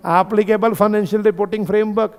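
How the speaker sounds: very slow, each word spaced out for notes; slow dictation. Shown as a demonstration. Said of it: "तो क्या लिख सकते हो?". (बहुत धीरे, लिखवाते हुए)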